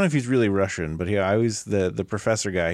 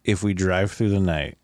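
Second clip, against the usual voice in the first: quoting the line; 5 semitones lower, slower than usual. Retold or imitated. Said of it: "I think is the".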